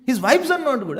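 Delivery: flatly sure of yourself; mock certainty; confident verdict. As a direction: pronounce it as settled fact. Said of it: "say such a confidently".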